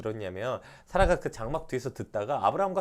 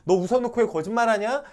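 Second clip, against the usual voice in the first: loud, high mock scolding; scolding demo; 9 semitones higher, 12 dB louder than usual. Shown as a demonstration. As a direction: scold her the wrong way. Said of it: "혼내는 게 아니라 기억하라는 거예요". (사라를 혼내는 말투를 흉내 내며 큰 소리로 꾸짖기)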